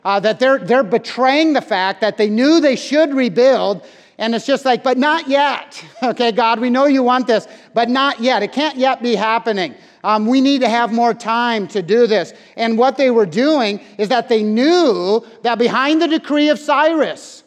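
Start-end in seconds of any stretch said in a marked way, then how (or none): 4.8-12.3 mock whiny excuse. People's excuses voiced to God.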